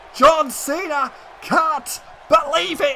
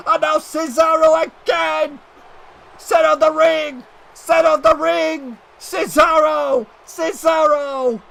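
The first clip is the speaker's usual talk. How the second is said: excited call; 3 semitones higher than usual. Real, not acted. Commentator calls the submission finish.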